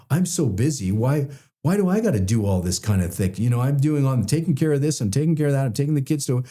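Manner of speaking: high, complaining martyr whine; playing the victim. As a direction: pitch it up like an overworked martyr. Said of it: "this victim rule".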